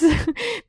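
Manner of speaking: high, short excited laugh. Real, not acted. Vlogger showing viewers her book stack, delighted laugh.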